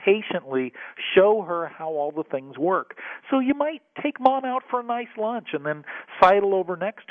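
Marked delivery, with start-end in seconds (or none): 0.0-0.7 "patiently" repeated with firm stress; emphasis on patiently. Real, not acted. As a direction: set "patiently" apart and stress it. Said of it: "I put a lot of emphasis on that word".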